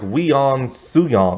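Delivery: "Leon Suyon" said like "lee-ON soo-YON"; imitated French pronunciation. Reviewer guessing what the French cop says, imitated "Leon Suyon". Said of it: "when the French dude says it".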